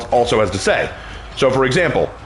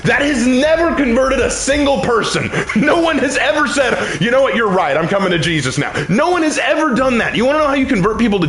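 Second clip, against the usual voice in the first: raised pitch, insistent sermon; emphatic preaching; 9 semitones higher than usual. Real, not acted. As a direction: hammer the point from the pulpit.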